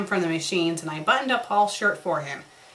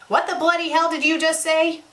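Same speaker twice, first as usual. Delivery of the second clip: higher, louder, stunned; shocked outburst; 7 semitones higher, 4 dB louder than usual. Acted. Ringo hearing Paul is pregnant, shocked outburst. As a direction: blurt it out in disbelief.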